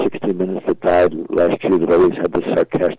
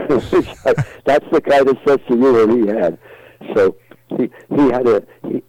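laughing; 6 semitones higher, 3 dB louder than usual. Real, not acted. Laughing at own punchline.

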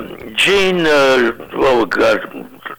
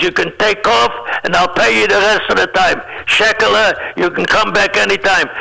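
imitating a club boss with a thick Jewish accent, higher pitched; 4 semitones higher than usual. Club boss blessing the comedian for taking the holiday, thick Jewish accent. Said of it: "he had a big, thick Jewish accent".

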